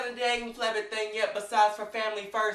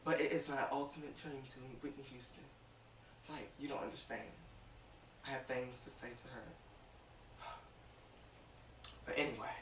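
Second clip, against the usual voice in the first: getting emotional; 6 semitones lower, 16 dB quieter than usual. Real, not acted. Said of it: "going to emotionals".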